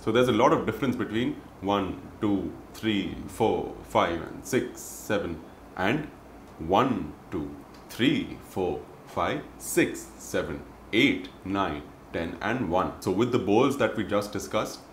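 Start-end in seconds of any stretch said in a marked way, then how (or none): 1.6-5.4 tonal count. Shown as a demonstration. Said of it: "with the specific tone". 5.8-13.0 tonal count. Shown as a demonstration. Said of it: "with the specific tone".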